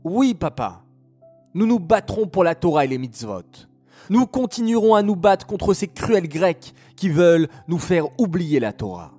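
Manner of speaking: eager sons. Acted. Sons promise to fight.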